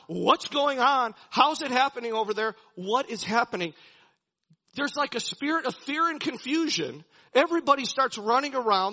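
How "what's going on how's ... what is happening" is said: loud, mock-panicked questions; raised, alarmed voice; acted panic. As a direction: imitate an army freaking out. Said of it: "They are panicking. They are freaking out".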